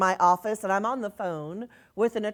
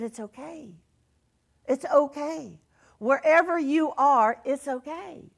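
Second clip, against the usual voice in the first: reassuring; 5 semitones higher than usual. Retold or imitated. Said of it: "I said".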